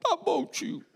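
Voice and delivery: put-on a meek little boy agreeing; small child. (voz fininha de criança)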